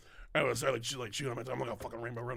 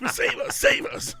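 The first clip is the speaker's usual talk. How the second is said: slow breathless little whisper; tiny whisper; 7 dB louder, slower than usual. Pretend. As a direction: plead in a tiny voice. Squirrels in cheek begging for help.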